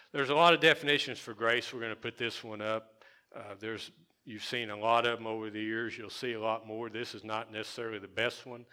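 ordinary delivery

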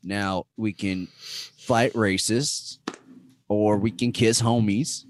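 slow Texas drawl; Texas accent. Acted. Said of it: "my Texas accent".

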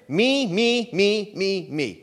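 insistent chant of "me", starting high and loud, then falling away; mock self-centred Christian. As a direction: mimic self-absorbed believers chanting for themselves. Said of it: "that sounds like American Christianity".

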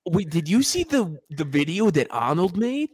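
put-on Boston accent. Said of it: "an Italian, like, Boston guy".

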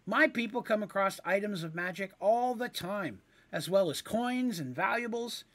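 very high, bright Of course; high eager agreement; eager kender. Acted. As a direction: jump at the chance.

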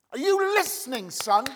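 high, insistent call to a son; attention-grabbing call. Acted. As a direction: demand his attention, loudly. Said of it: "This is Jesus grabbing this guy's attention".

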